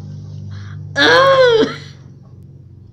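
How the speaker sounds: high, loud squealing laugh; loud squeal of embarrassed laughter; loud laughing outburst. Real, not acted. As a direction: break into a high-pitched burst of laughter. Frustrated about how she talks.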